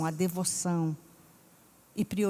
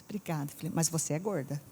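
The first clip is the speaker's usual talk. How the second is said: hushed aside; 4 semitones lower, 6 dB quieter than usual. Retold or imitated. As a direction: whisper it, softer, like a secret joke. Whispered funny family quote.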